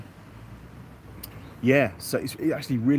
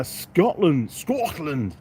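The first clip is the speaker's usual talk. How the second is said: put-on slow, failed stab at a Scottish accent; drawn-out mock-Scottish lilt; attempted Scottish accent; 5 semitones higher, much slower than usual. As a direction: have a go at Scottish, badly. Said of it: "I can't do a Scottish accent".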